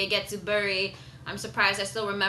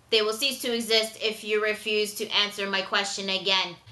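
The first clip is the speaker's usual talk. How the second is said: level, mechanical robot voice, lightly done; 3 semitones lower than usual. Retold or imitated. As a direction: read it like a cold machine. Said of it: "he sounds like a freaking robot".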